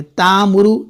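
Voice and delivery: तामुरु with a drawn-out long aa; wrong long a. Shown as a demonstration. Quran teacher shows students the wrong long vowel. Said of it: "हम नहीं पढ़ेंगे ता".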